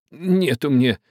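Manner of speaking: put-on slow, high, earnest old man; old man's answer. A narrator's reading. Old man insisting to the captain, slow and high. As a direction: drag it out, dead serious. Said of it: "ответил старик".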